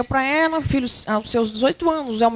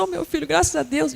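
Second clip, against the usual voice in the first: tearful relief; 2 semitones higher than usual. Acted. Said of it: "E chora".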